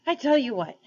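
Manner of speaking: bright donkey. A narrator's reading. Donkey brightly offering a theory to the animals. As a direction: pipe up cheerfully with an idea. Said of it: "said the donkey brightly".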